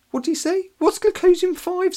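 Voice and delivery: big brother confused by the muttering; puzzled. A narrator's reading. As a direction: ask it utterly bemused.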